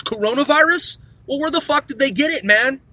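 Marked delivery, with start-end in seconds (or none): 0.0-1.0 "coronavirus" set off sceptically, raised in pitch; air-quote emphasis. Real, not acted. Ranter doubting where people caught the virus, air-quote emphasis on "coronavirus". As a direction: put audible air quotes round "coronavirus". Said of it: "air quotes".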